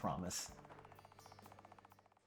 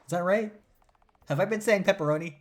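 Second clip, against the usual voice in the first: surprised realization; 9 semitones higher, 6 dB louder, faster than usual. Real, not acted. Reader laughs at own misreading.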